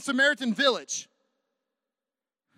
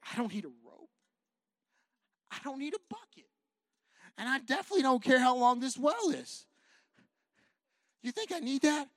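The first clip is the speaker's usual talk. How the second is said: reassuring Jesus; 3 semitones higher than usual. Acted.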